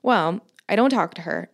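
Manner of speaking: usual speaking voice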